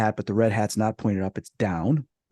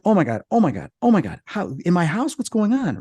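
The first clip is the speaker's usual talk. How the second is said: higher, astonished disbelief; retold shock; 6 semitones higher than usual. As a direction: replay your stunned "oh my God" reaction. Retelling own shock at sighting.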